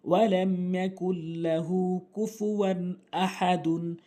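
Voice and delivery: slow, measured Arabic recitation with long held vowels; Quran recitation. Shown as a demonstration. Teacher reciting the sura correctly for learners, slow recitation. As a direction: recite slowly, drawing out each long syllable.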